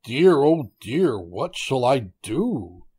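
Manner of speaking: lightly acted panic of a tiger; alarmed cry. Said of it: "he cried".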